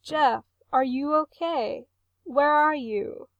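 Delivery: mother pressing her crying son, high and urgent; worried. A narrator's reading. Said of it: "she sounds worried".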